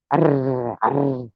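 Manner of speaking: a rough growling arr, meant as a purr; botched cat purr; failed purr. Pretend. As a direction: try to purr and make it an arr. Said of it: "not a good purr at all".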